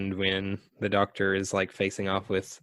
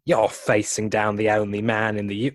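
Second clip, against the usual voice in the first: a slightly put-on British voice, a bit louder; lightly voiced British Doctor; second David Tennant attempt; 3 dB louder than usual. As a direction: try the Tennant voice again. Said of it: "That was somehow worse".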